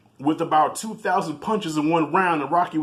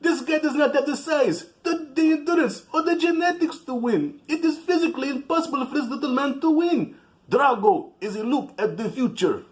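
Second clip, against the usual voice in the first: much higher, small, squeaky announcer voice; a tiny voice of doubt lecturing in his head; little man's voice; 11 semitones higher than usual. Retold or imitated. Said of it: "that little man's voice in his head".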